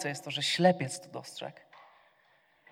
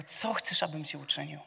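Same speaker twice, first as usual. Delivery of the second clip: softer, gentle caring ask; caring question; 2 semitones lower, 9 dB quieter than usual. Acted. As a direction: ask with quiet concern. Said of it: "który z troską pyta". (łagodne, cichsze, troskliwe pytanie)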